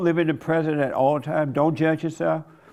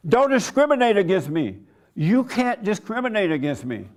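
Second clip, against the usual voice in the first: raised, higher-pitched mock protest; loud protesting woman; 5 semitones higher than usual. Customer protesting to the bank manager, mock loud indignation. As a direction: imitate her loud indignant objection. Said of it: "'cause she's so loud".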